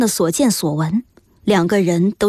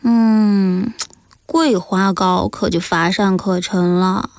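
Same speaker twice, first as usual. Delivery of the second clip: slow, drawn-out murmur of appraisal; self-talk appraisal; 2 semitones lower, slower than usual. A narrator's reading. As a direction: weigh each taste slowly, talking to yourself. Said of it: "金多多自言自语地点评着". (慢悠悠地自言自语点评)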